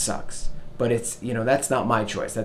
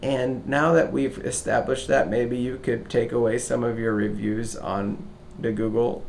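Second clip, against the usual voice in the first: smooth ask; slower than usual. Retold or imitated. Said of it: "drops the line of".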